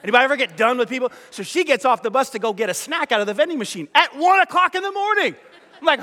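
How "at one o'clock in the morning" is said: incredulous. Retold or imitated. Tired traveler watching the shuttle driver, incredulous. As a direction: pitch soaring in mock outrage. Appalled at late-night snack run.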